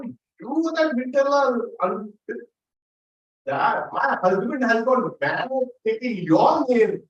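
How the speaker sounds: high, loud furious shouting; angry shout. Acted. Wife yelling at the stranger who took her husband's mind, loud and high. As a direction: yell at him for stealing her husband.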